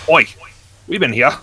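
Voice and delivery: rising into a loud, angry bark; gruff dwarf telling them off. Acted. Dwarf scolding the line jumpers, an angry bark that builds. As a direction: put the queue jumpers in their place, building to a shout.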